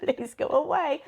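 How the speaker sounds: put-on cat refusing the girl, slow and high; voicing the cat. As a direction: drag out the no's as the cat. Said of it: "she was like".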